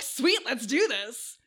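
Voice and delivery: drawn-out, playful eagerness; eager teen volunteer. Acted. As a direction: play a kid who's totally up for it. Acting the eager teenage volunteer.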